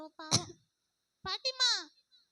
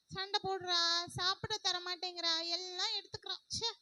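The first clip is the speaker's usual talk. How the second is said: softer, lower sulking to herself; sulky lament; 4 semitones lower, 4 dB quieter than usual. Acted. Sulking alone after the fight with her sister. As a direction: mope about the fight.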